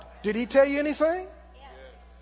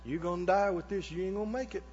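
imitated devil; 3 semitones lower, 8 dB quieter, faster than usual. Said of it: "Ever says".

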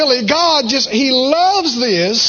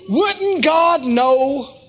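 slow, higher, laughing through the question; laughing delight; 5 semitones higher, slower than usual. Real, not acted. Preacher to the congregation, delighted at God's timing: laughing, slow and high. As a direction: chuckle it out, amazed at God.

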